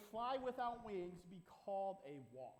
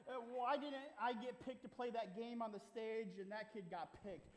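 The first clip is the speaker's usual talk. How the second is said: 1 mock whiny kid; slower than usual. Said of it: "they would say".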